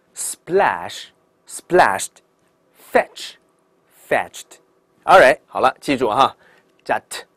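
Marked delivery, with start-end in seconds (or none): 0.1-4.6 very slow, one word at a time with pauses; teacher's repeat-after-me list, -ed as a light t; read-along word drill. Shown as a demonstration. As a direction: model each pair, "kissed" and "slapped" ending in t. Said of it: "一起来读一下".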